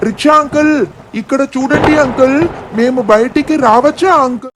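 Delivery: put-on child calling out to a passing rickshaw driver. Kids calling rickshaw driver outside.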